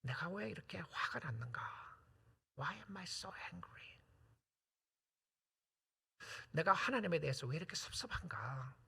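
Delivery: soft, whispered self-questioning; hushed reflective preaching. Real, not acted. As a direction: draw them inward quietly. (속삭이듯 성찰하는 설교)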